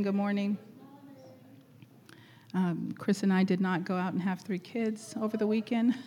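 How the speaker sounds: usual speaking voice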